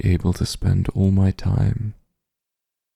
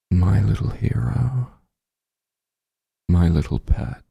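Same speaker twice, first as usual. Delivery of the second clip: whisper. Acted. Whispered pet name.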